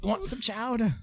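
put-on Boston accent.

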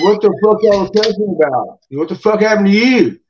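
a light imitation of a baffled buddy walking in; buddy walking in asks what the cussing was, lightly mimicked; buddy's puzzled question. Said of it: "my buddy comes... walking in".

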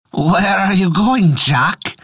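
slow bleating goat voice; bleating like a ram. Acted. Goat asks Jack.

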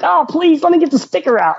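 high-pitched mock begging; retold pleading. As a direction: plead like a sentimental sap, replayed. Retells pleading with the repo man.

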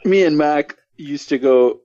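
put-on Boston accent. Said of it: "you just sound dumb".

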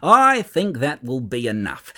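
firm, loud, halting the babble; stern. A narrator's reading. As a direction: shut it down firmly. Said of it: "said quite sternly".

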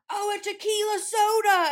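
high, perky mock voice; exaggerated high-pitched answer; imitated woman at bar.

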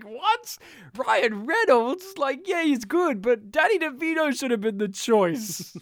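high-pitched mock disbelief; hammed-up incredulous complaint; mock uproar. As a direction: imitate indignant, baffled fans. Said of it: "They're like".

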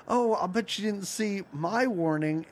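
lightly voiced smug Pac-Man, near own voice; a hint of Pac-Man turning the tables. Retelling Pac-Man's comeback to the ghosts, mild mock smugness. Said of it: "And then he's like".

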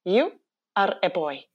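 put-on child's deliberate verdict in Icelandic accent. Little girl looking Heklina over, imitated Icelandic accent. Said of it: "she's in her little Icelandic accent".

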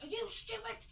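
high, loud exasperated scolding; mock-shouting as her mum scolding her; imitating irate mum. Mum scolding daughter for letting stranger in, high exasperated yelling. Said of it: "already irate".

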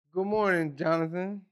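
lilting British greeting to a pupil; British accent. Retold or imitated. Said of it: "the British accent with them".

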